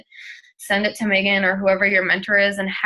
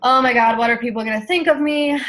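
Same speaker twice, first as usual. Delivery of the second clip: louder, higher mock panic; half-hearted mock worry, pitched up; 4 semitones higher, 4 dB louder than usual. To herself when people said no, mock panicked. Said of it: "one of my biggest things was".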